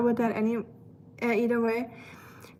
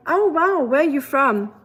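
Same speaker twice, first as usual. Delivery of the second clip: higher, louder imitation of curious strangers; mock surprise; 4 semitones higher, 4 dB louder than usual. Strangers hearing her German hello, mock surprise. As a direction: imitate them wowed by the accent.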